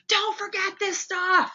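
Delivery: high, slow mock monster voice; dopamine beast voice. Teacher voicing the dopamine beast, high and slow. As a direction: draw it out as a playful beast.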